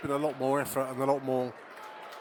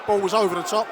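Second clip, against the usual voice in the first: loud, higher commentary, furious at the referee; outraged play-by-play; 6 semitones higher, 7 dB louder than usual. Real, not acted. Fan commentator fuming to listeners about poor refereeing, loud and outraged. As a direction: rage at the ref while calling the game. Player tripped, crowd howls.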